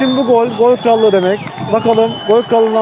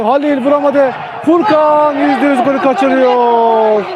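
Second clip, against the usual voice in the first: excited commentator; 4 semitones higher than usual. Acted. Commentator on a big miss. (heyecanlı spiker)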